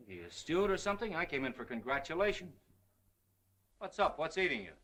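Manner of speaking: high, puzzled questioning; baffled high questions. Acted. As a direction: ask in surprised disbelief. Baffled by gloomy friend.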